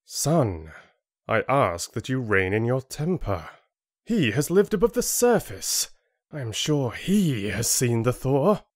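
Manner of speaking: a lightly voiced father, steady and reasoning; gentle fatherly reasoning; John calming his son. John calms his angry son.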